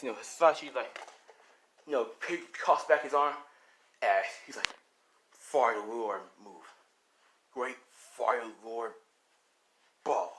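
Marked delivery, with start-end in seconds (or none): 5.3-10.3 slow, lower attack call; attack incantation. Acted. Fighter casting fire moves, slow incantation. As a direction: draw out the move name slowly.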